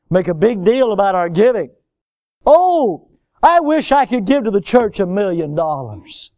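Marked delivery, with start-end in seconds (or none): 2.5-6.3 mock generosity. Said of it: "we have our giving ways".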